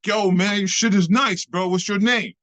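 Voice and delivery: high, emphatic praise; acted-out excited compliment; impressed rival. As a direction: gush with respect at his moves. Rival praising him after battle.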